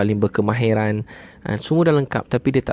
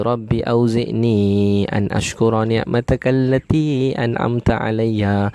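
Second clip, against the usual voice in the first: slow, drawn-out recitation of the Arabic verse; much slower than usual. Acted. Preacher reads the verse aloud, slow and reverent.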